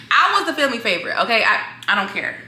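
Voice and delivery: defending her claim to her cousins, sassy; playful insistence. Real, not acted. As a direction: insist on it, quick and teasing.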